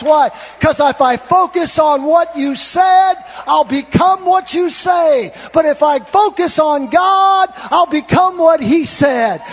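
loud, high, driving sermon delivery; full-force preaching. Real, not acted. Preacher urging the church to refocus, full-force preaching. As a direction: preach it out, stretching the key words.

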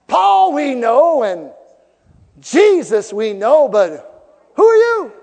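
loud, drawn-out challenge, rising high at the end; demons' challenge. Acted. Preacher voicing demons challenging would-be exorcists, loud challenge. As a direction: boom it slowly, then throw the question up high. Voices demons confronting the sons of Sceva.

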